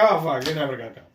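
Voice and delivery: fast, laughing through it. Retold or imitated. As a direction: rattle it off with a laugh. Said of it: "I'm like".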